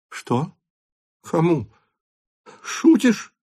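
rising to a high shocked "Шутишь"; stunned father disbelieving; shocked cry. A narrator's reading. Count hears of the gambling debt, shocked cry. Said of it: "крикнул граф".

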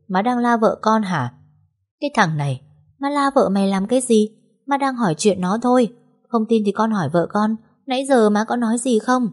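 a hint of an offended mother brushing it off; mother protesting to her son, mildly indignant; defensive mother.

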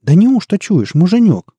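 high, doubtful giantess. A narrator's reading. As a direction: humour the ogre. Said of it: "говорит великанша".

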